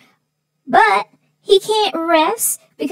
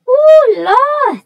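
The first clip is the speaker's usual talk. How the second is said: ooh Lord; 9 semitones higher, 6 dB louder than usual. Real, not acted. Reacting to the cats' fight.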